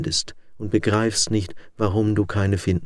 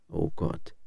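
whispered prayer; 4 semitones lower, 9 dB quieter than usual. A narrator's reading. Tearful prayer.

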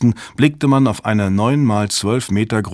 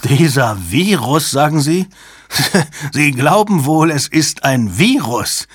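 derisive laughter; 6 semitones higher, 3 dB louder than usual. A narrator's reading. Jabba bursts out laughing at Fontaine's question, derisive laughter. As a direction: laugh scornfully through the question. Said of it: "brach unvermutet in schallendes Gelächter aus".

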